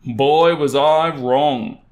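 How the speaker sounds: ordinary delivery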